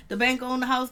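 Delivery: laughing as she repeats it; repeating Nikki's line through laughter. Real, not acted. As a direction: crack up on the line.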